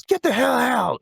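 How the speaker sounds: high mock yell; imitating a yelled get out; retold yell. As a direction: bark it out like a mock eviction. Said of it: "yells at him to get out".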